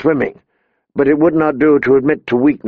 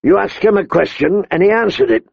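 stern rebuke; 6 semitones higher than usual. A narrator's reading. King rebukes the queen.

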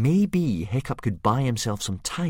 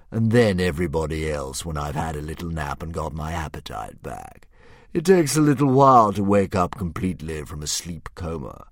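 lightly voiced dragon; 3 semitones lower, 6 dB louder than usual. Dragon voice held.

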